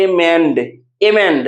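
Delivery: एमेंड with मेंड held longer and falling; stress on last syllable. Shown as a demonstration. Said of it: "last वाले पे हम लोग ज्यादा देर रुक रहे हैं". (एमेंड के आखिरी "मेंड" पर रुककर ज़ोर)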